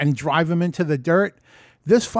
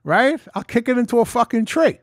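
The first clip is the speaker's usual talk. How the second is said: louder, higher mocking dare; brash taunting brag; cocky bravado; 6 semitones higher, 5 dB louder than usual. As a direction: scoff at the danger. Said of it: "I'm like".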